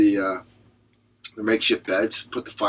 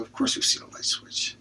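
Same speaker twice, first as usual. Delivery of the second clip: whispered reply; 5 dB quieter than usual. Acted. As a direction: whisper it, unvoiced. Joke characters answer.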